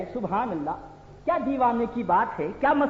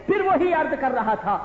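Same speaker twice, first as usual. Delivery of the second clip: preaching at full force; 9 semitones higher than usual. Acted. Preacher denouncing rivals to the congregation, fiery shout. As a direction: thunder it out to the crowd.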